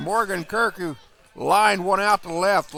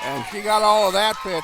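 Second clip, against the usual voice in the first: excited shout; 4 semitones higher, 4 dB louder than usual. Real, not acted. Home run call.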